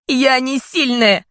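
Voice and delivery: loud, high, slow sobbing cry; shouted. A narrator's reading. Daughter screaming her denial at her father. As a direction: scream it out through tears. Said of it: "прокричала я".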